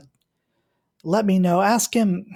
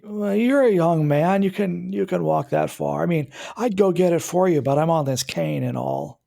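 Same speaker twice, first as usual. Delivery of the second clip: a hint of a raised old man; lightly voiced old neighbor on a cane. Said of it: "the old man voice".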